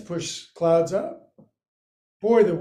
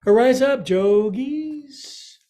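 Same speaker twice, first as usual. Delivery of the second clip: louder and higher call to rise; rallying call; 7 semitones higher, 4 dB louder, slower than usual. Real, not acted. Teacher calling the class up to stand, rallying. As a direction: lift them up with an upbeat call.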